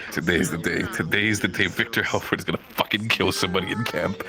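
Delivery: low, lightly growled vow; Victor's grim vow. Retold or imitated. Victor storming out, a hint of grim menace. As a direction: mutter it like a threat. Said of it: "Victor is just like".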